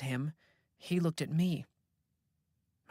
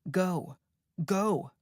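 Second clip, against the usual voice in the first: commanding; 4 semitones higher, 3 dB louder than usual. A narrator's reading. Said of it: "like a traffic cop".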